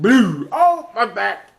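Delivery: high-pitched comic cry of pain; mock back pain. Johnny Cage lands wrong from a tree, mock pained yelp. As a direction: yelp as if the back just gave out. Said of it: "jumped down wrong and hurt his back".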